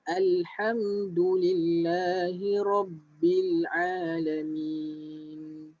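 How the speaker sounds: slow, drawn-out tajwid recitation; slow Quran recitation. Shown as a demonstration. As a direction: recite it slowly for students to follow. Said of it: "dengar, Ustaz baca". (bacaan tajwid perlahan)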